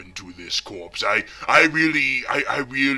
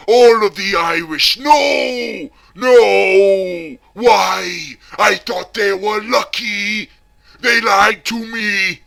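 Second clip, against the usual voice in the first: higher, shouting in mock despair; anguished shout; 8 semitones higher, 10 dB louder, slower than usual. Shouting to viewers about the lucky Irish, hammed-up anguish. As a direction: cry out No and Why, hammed-up grief.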